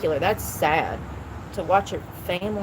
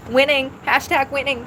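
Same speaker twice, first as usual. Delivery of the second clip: Charlie Sheen; 5 semitones higher, 4 dB louder than usual. Retold or imitated. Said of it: "Charlie Che-, Sheen".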